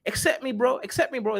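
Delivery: mock London plea from a man with a knife; London roadman accent. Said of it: "Kaizoran accent".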